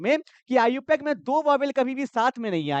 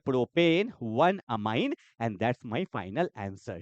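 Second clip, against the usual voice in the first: quiz-show final answer; 10 semitones lower, 5 dB quieter, much slower than usual. Pretend.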